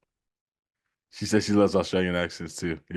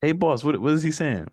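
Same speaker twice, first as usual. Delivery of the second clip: put-on deep Southern accent; 7 semitones higher, 3 dB louder than usual. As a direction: imitate a deep country Georgia accent. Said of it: "the guy with the really deep accent".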